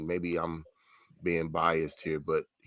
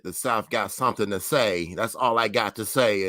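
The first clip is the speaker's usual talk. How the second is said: put-on English accent; 3 semitones higher, 6 dB louder than usual. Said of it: "And his English accent".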